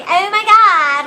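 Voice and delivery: lightly voiced airheaded Valley Girl; ditzy and breezy, a hint of Valley Girl; mock Valley Girl rambling about the Constitution. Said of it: "I sound like a Valley Girl".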